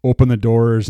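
loud barked order; demanding shout. Retold or imitated. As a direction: call it out as a command. Judge demanding entry.

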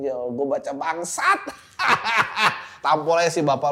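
laughs at how absurd it is; laughing disbelief. Real, not acted. Cursing after reading the message.

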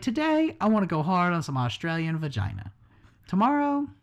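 weak attempt at an Australian accent; hammed-up Australian accent, barely there; bad Australian accent. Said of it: "I can't even fucking do an Australian accent".

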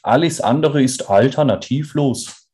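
high, put-on American accent. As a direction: thank them like a foreign leader. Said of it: "am amerikanischen Akzent gehört, das war Joe Biden".

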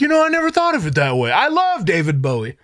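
high, fast, sucking-up voice; mock-sincere pretend agreement; fake agreeable self. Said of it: "I was gonna be like".

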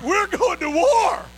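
slow, high, loud call to battle; rally the troops with it; rousing war shout. Retold or imitated. Rallying the helpers.

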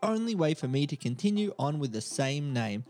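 reading a script cold, a bit halting; sight-reading a report aloud; first-time read-through. Real, not acted. Host reads a paid Fiverr intro to his co-host, sight-reading. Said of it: "very endearing hearing you read for the first time".

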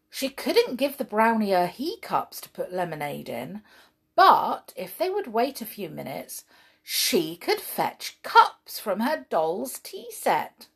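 put-on lively read-aloud for children; storybook reading. A narrator's reading. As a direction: tell it like a bedtime story.

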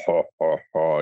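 lightly imitated creepy "ha, ha, ha"; spoken-out mock evil laugh; mock malevolent laugh. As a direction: imitate a sinister device laughing, understated. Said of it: "whispering malevolently or laughing".

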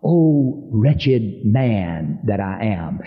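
slow, drawn-out lament, understated; anguished cry. Retold or imitated. Preacher quotes Paul crying out, slow restrained anguish. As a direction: draw out a restrained cry of despair. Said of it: "he literally cries out".

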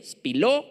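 spiló pronounced clearly with final O stressed; spiló as it sounds. Shown as a demonstration. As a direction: sound out spiló, landing on the last syllable. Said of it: "como se oye". (spiló, dicho como se oye)

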